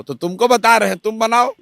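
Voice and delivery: emphatic retold urging. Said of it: "तो हम कहा".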